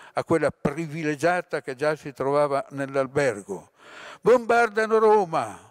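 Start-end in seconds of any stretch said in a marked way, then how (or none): 4.2-5.6 high, loud panicked cry; terrified yell. A narrator's reading. Someone bursting in shouts in terror. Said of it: "urlò la voce atterrita".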